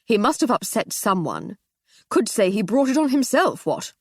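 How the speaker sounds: lightly slurred bluster; tipsy. Acted. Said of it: "slightly drunkenly".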